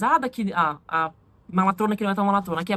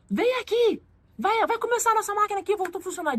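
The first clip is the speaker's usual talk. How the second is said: high-pitched mock summons of a jealous coworker; imitated bossy call; 10 semitones higher than usual. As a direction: call her back sharply, in a high imitation. Jealous coworker orders her back. (chamado mandão, imitado em tom agudo)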